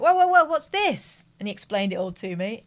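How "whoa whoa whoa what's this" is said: high, loud, slow amazed whoa. Retold or imitated. Seeing the neighbour's kid whizz past, loud amazed whoa. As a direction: gape at it, stretched up high. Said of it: "and I went".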